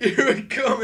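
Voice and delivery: loud, high battle cry; hammed-up attack shout; battle yell. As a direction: charge in with a yell. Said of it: "he's finally like".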